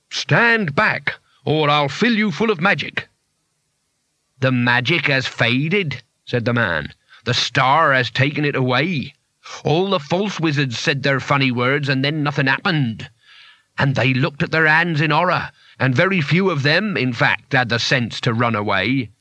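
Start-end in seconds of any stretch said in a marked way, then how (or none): 0.1-3.1 high-pitched raspy warning; rasped threat. Acted. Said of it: "and rasped". 4.4-6.0 slow, lightly voiced townsman; menacing townsman. Menacing townsman figure in the story. 7.3-19.1 lightly voiced zealot townsman; solemn townsman accuser. Menacing townsman figure in the story.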